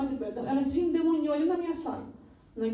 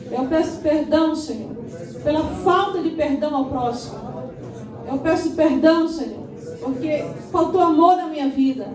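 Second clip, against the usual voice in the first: fervent prayer; 3 semitones higher, 6 dB louder than usual. Acted. Pastor leading the church in a prayer of forgiveness, fervent and loud. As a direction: cry out each plea to God, building.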